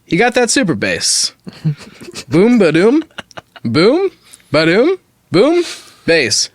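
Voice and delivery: mock-serious recital that builds to a rhythmic chant; dramatic reading. Reading a song's lyrics to friends as mock drama. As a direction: read it deadpan, then let the boom ba-dooms climb. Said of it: "Dramatic read".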